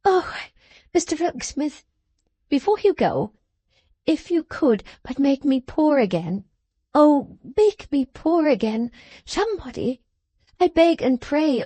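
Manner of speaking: put-on a young woman begging her father's comfort; tearful pleading. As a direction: beg as if your heart will break. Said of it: "in an incoherent passion of tears".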